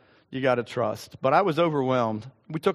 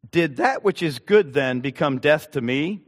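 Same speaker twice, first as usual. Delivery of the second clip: scripture reading. Acted. Reads scripture aloud to congregation.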